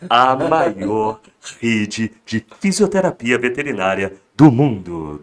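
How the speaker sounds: hard sell supermarket PA announcer. Shown as a demonstration. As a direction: sell it like a store loudspeaker ad. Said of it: "no tom de locutor de supermercado".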